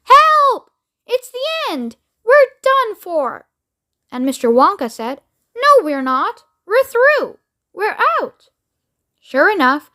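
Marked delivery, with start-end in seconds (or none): 0.0-3.5 very high panic, slowing at the end; terrified shout. Acted. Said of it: "Grandpa Joe shouted". 5.6-8.5 high, jubilant; triumphant. Acted. Wonka triumphant after crash.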